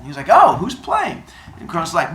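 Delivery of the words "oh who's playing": high, eager question; high Zeus voice. Acted. Zeus asks Kronos about the game, high voice. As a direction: ask it high and keen.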